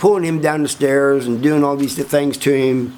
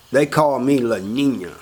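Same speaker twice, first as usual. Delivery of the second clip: proud self-introduction. Retold or imitated. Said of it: "La Nina runs up to him and says".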